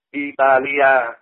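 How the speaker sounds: Italia drawn out very slowly, syllable by syllable, I-ta-li-a; very slow Vietnamized Italia; Vietnamese Italia. Shown as a demonstration. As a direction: stretch Italia out slowly, one syllable at a time. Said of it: "Ví dụ khi nó đọc".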